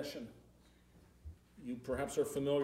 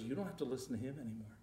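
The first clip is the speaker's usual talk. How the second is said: softer, quick reassuring words; gentle new master; 3 semitones lower, 5 dB quieter, faster than usual. Retold or imitated. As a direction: reassure him quietly. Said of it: "the new master comes out and says".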